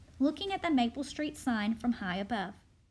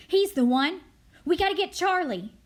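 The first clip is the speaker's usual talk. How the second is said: raised voice, accusing; loud accusation; 5 semitones higher, 8 dB louder than usual. Acted. Crowd turning on Charlie, loud and accusing. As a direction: call out the culprit loudly.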